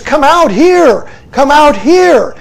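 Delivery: slow, loud retold shout of warning; a king calling urgently through the windows, loud and slow. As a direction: call them out of the burning house. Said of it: "he shouts and says".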